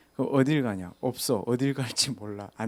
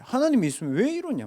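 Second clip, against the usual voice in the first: put-on anguished old man; 11 semitones higher, 4 dB louder than usual. Preacher voicing grieving man's cry.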